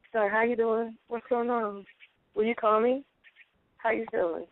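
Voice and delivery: a hint of flirting; flirty voice. Shown as a demonstration. Woman shows her flirting voice to a man, lightly flirty. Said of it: "Did you hear my voice change".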